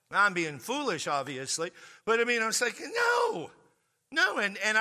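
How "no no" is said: very high shouted refusal; emphatic no. Retold or imitated. Refusing the girl's request, very high shouted no. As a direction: fling out the no.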